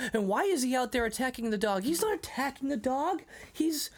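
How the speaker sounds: high, mock-indignant back-and-forth; retold defensive exchange. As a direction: act out a son explaining away trouble. Retold argument about the dog.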